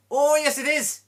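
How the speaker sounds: high, loud gleeful cry; proud shouted comeback; triumphant shout. Acted. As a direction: crow the answer in triumph. Irishman's triumphant punchline answer.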